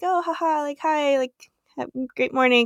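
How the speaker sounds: high, forced, overly friendly, awkwardly cheery tone. Retelling greeting a stranger while a child screamed: imitating an awkward smiling greeting. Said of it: "smiling at him".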